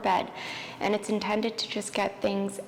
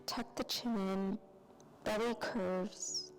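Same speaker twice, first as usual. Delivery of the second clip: soft, unhurried yoga-teacher voice with long pauses; guided yoga relaxation; 16 dB quieter than usual. Real, not acted. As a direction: ease them through each breath, softly. Leads calming yoga practice.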